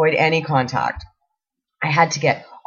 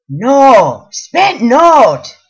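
put-on a loud, blunt "spent not" in an Asian accent; thick Asian accent; 5 semitones higher, 9 dB louder, much slower than usual. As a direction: correct her loudly in a heavy Asian accent. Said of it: "thickest Asian accent I have ever heard".

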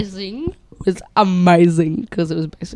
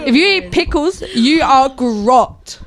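higher, emphatic disgust, slowing at the end; 4 semitones higher, 3 dB louder than usual. Real, not acted. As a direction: pronounce a disgusted verdict, dragging the last words. Disgusted verdict on pickle eaters.

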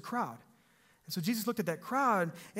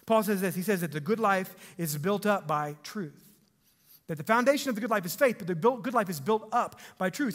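preaching emphasis; 2 semitones higher, 5 dB louder than usual. Real, not acted. Preaching key point.

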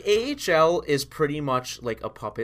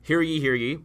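town crier; 2 semitones higher than usual. Pretend. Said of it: "read what it says".

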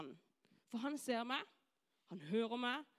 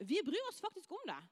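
earnest, higher-pitched insistence; sincere assurance; 5 semitones higher than usual. Shown as a demonstration. School worker assuring doubting pupils, sincere. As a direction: insist that you truly mean it. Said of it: "Men oppriktig så gjør de det".

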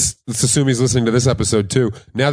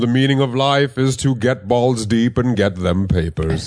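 slow, raised biblical proclamation; mock scripture reading; 3 semitones higher, slower than usual. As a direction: intone it like holy writ, drawn out. Mock scripture telling of a tweet.

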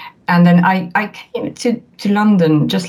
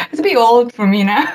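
giggling through the words; a real giggle, a little higher; laughing; 7 semitones higher than usual. Real, not acted. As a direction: laugh at your own joke as you speak. Joking about her crush.

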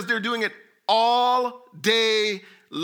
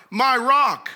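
pleading cry; 2 semitones higher, 3 dB louder than usual. Retold or imitated. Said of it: "I will say to God".

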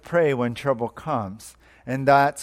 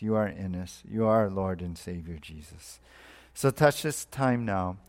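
prayer; 3 semitones lower than usual. Real, not acted. Pastor leading the congregation in opening prayer, subdued and earnest.

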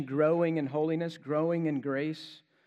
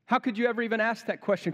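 incredulous; 6 semitones higher, faster than usual. Retold or imitated. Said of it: "It's like".

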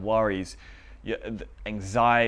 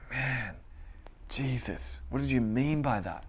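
puzzled musing; 8 dB quieter than usual. Retold or imitated. Imitating a puzzled Bible reader.

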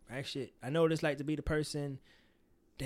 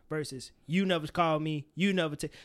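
accusing. Shown as a demonstration. Showing the blaming way to confront a friend, accusing. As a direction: throw the never back at them. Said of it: "Those are two different conversations".

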